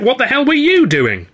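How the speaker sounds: loud, high furious yell; angry shout. A narrator's reading. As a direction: yell the accusation. Shouting back in argument.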